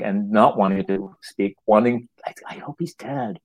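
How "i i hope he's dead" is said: soft, higher-pitched confession; secret wish. Retold or imitated. Audience member secretly wishing the boy dead, hushed. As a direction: murmur it as a guilty thought.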